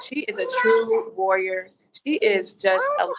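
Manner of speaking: choking up on the praise; tearful. Real, not acted. Guest praising the host to her followers, tearful and choked up. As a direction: voice catching with tears while praising her friend.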